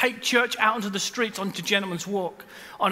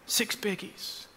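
whispered repeat; 11 dB quieter, slower than usual. Shown as a demonstration. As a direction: whisper "Six biggies" unvoiced and much softer. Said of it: "but in forty-three years".

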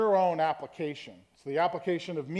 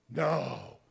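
long, low NO; drawn-out no; 5 semitones lower, 3 dB quieter than usual. Shown as a demonstration. Pastor showing tones of no, long low NO. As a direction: stretch NO out on a low pitch. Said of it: "tone and inflection you say no".

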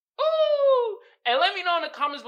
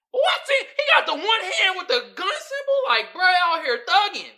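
high, loud, laughing exclamation; cracking up in disbelief; amused disbelief; 11 semitones higher, 9 dB louder than usual. Real, not acted. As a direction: holler it through laughter. Laughing at meme of boy.

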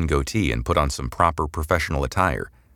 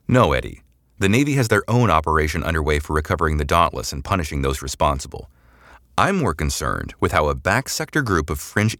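firm interrogator; 2 semitones higher than usual. Acted. Samantha interrogating Eddie.

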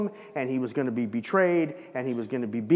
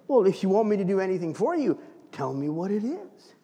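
warm and embracing; 4 semitones higher than usual. Retold or imitated. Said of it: "warm and embracing in his reaction".

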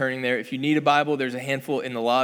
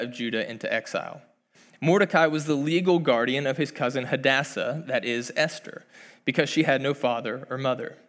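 scripture read as a gentle story; storytelling voice. Acted. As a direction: tell it like a fireside story. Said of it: "I'm gonna read it in my best storytelling voice".

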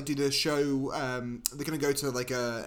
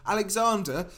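Americans' imitation British accent; attempted British accent; 3 semitones higher than usual. Briton mimics Americans trying his name, put-on British accent. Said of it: "they try and do a British accent".

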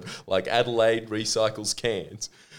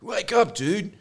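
high, loud teasing wake-up voice; mock wake-up call; 12 semitones higher, 4 dB louder than usual. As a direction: yell it up high like waking a friend. Friend voiced waking him up.

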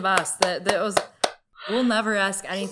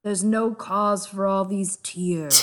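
slow soothing schemer; slower than usual. Acted. Littlefinger calming Lysa.

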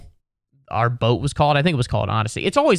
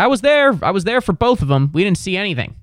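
indignant rant; 5 semitones higher, 4 dB louder than usual. Retold or imitated. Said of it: "Just be like".

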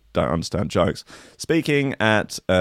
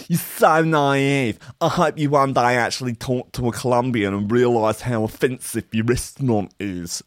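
indignant user voice. Retold or imitated. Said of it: "one user wrote".

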